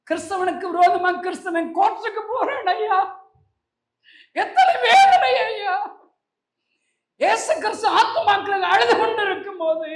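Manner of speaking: high, loud pulpit lament; anguished preaching. Real, not acted. Preacher laments Christians fighting while Jesus weeps, anguished. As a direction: cry out to the church, drawing out the anguish.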